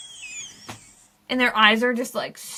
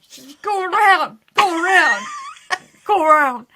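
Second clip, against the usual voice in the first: loud, higher wailed traffic directions; mock sobbing shout; 6 semitones higher, 6 dB louder than usual. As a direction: holler at passing cars as if sobbing. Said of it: "I'm sobbing".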